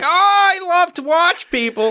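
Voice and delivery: high, laughing voyeur voice; hammed-up creepy voyeur; mock creepy voyeur. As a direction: coo it like a creepy peeping fan. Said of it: "'cause it's like".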